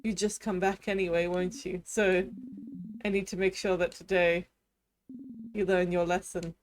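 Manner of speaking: cold, gloating villain king voice; menacing king. Acted. Villain king taunting the trapped hero, menacing.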